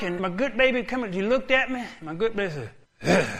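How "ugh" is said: normal talking voice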